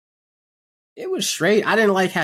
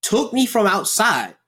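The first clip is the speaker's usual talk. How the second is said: complaining to Pete; 6 semitones higher than usual. Pretend. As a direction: build the grievance, rising higher. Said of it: "But, but Pete".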